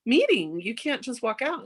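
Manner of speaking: urgent protest. Retold or imitated. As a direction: retell an urgent plea to stay. Pleading with companion to stay.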